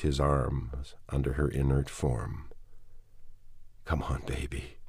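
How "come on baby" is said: hushed and soft, close to her ear; soft hushed plea; tender whisper. Acted. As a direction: breathe it gently to your dead wife. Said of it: "he whispered".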